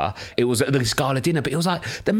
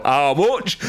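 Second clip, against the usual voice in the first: a northern "How much?" with a rise; northern accent. Retold or imitated. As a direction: northerner asking a price. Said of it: "best northern accent I've ever heard".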